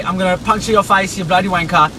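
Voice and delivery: mock British accent, cheeky insult; fake British threat. Telling her what to say, in British accent. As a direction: spit it like a London thug, in British accent. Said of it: "I'll stop with this accent".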